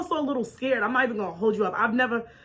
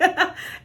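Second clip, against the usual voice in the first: mock giggle; 6 semitones higher than usual. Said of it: "she laughed".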